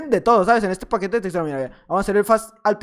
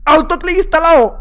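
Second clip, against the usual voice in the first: loud, higher, punchy announcement of the cheat; triumphant announcement; 6 semitones higher, 7 dB louder than usual. Real, not acted. Gamer crowing to viewers about his autoclick, loud and triumphant. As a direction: call it out proudly like a game alert.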